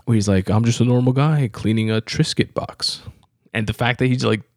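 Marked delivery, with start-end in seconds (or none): 0.5-3.0 lightly put-on comic voice; imitating comedian's funny voice. Podcaster retells a comedian's cleaning bit, mildly funny voice. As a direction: quote it with a touch of silly voice. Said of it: "like, funny voice".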